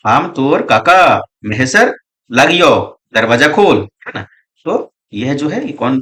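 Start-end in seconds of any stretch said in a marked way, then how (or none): 0.1-3.8 loud call through a shut door, slow on the name. Retold or imitated. Uncle calls his nephew through the door, loud call. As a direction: shout for Raghu to open up. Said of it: "हकावे लागल कि".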